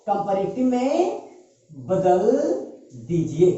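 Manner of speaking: slow dictation. Real, not acted. Repeats rule slowly for writing.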